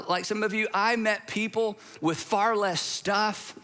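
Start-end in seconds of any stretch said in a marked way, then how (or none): 0.1-0.7 said through a laugh; amused aside with a laugh. Real, not acted. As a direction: chuckle while saying it.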